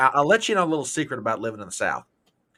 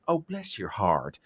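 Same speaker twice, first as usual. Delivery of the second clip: slow, low drawl; a sweetly slow Southern put-down; 4 semitones lower, 3 dB quieter, slower than usual. Retold or imitated. Southerner dismissing a silly idea, slow drawl. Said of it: "in the case of saying".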